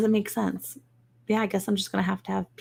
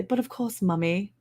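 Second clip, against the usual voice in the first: posh Mummy reply; 5 dB quieter than usual. Pretend. Child answering mummy, mock posh voice. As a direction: put on a fancy proper voice. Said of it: "that's what they have to say".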